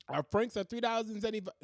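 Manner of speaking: playful mock Asian accent. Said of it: "I don't know why I'm doing that".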